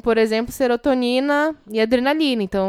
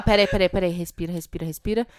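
mock self-calming; 4 semitones lower than usual. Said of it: "você não vai falar".

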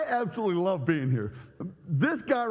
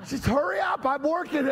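mock impatient shout; 7 semitones higher than usual. Jokes at the sound man.

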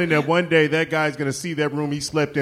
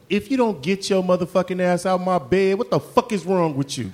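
mock angry rant; 3 semitones higher than usual. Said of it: "specifically in that accent".

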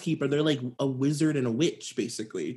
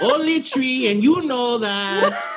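mock hurt nanny; 9 semitones higher, 7 dB louder, slower than usual. Nanny answers with a hurt correction.

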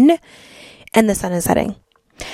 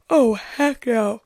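dragged-out heck no; 3 semitones higher, much slower than usual. Real, not acted. Reacting to her own yawn.

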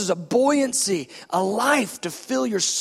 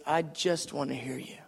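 gentle Lord; 8 semitones lower, 9 dB quieter than usual. Retold or imitated. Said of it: "He goes".

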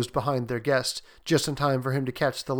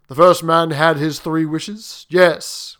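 slow, weighty and louder; grave soldier; 2 semitones higher, 8 dB louder, slower than usual. Acted. Soldier answers the old lady about the first owner, gravely. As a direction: answer with heavy gravity. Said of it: "His tones were so grave".

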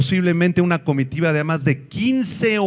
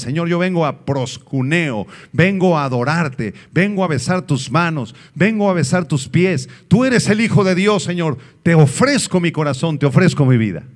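modelled prayer. Acted. Preacher showing the church how to worship, building fervour. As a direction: pray it out, rising into devotion.

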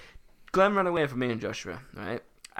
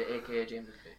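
whispered prompt; 4 semitones lower, 15 dB quieter than usual. Shown as a demonstration. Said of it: "turn and look into the thing and say".

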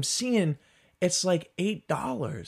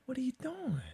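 high, soft incredulous question; baffled disbelief; 10 semitones higher, 10 dB quieter, faster than usual. Acted. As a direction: squeak it out softly, utterly baffled. Baffled at the shop's choice.

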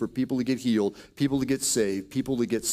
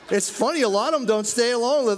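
higher, laughing talk; amused, chuckling through it; 9 semitones higher, 4 dB louder than usual. Real, not acted. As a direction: tell it still laughing. Laughing about people rushing off.

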